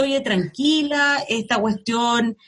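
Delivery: slow, calming reassurance to a crying friend; retelling how she calmed a tearful friend, slow and reassuring. Retold or imitated. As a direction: soothe them, slowly. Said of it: "tuve que un poco contener a algunos amigos".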